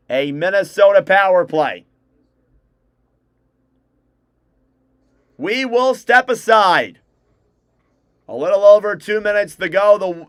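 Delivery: brisk broadcaster's call of the action; live play-by-play. Acted. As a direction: call the hockey game live for stream viewers.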